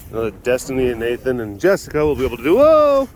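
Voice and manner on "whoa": sudden high, loud "whoa"; startled whoa. Real, not acted. Explaining the chores when something startles, startled high whoa. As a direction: yelp it out in surprise. Startled while walking among animals.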